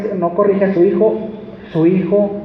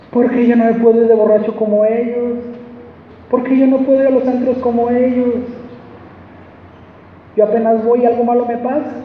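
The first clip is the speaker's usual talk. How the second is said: put-on complaining young believer; 5 semitones higher than usual. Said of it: "yo decía cuando era un cristiano".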